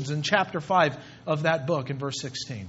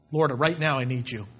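simple prayer; 5 semitones lower than usual. Shown as a demonstration. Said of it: "Speak freely right then".

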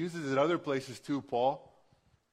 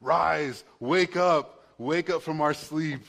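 much louder, commanding wake-up call; rousing cry to wake; 8 dB louder, slower than usual. Real, not acted. Preacher calling his sleeping church to rise, loud. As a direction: shout the church awake.

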